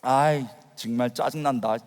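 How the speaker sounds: low, quiet irritated grumble; annoyed muttering. Retold or imitated. Unbeliever sitting through the sermon, quietly annoyed. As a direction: grumble under your breath, fed up. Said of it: "짜증이 나가지고".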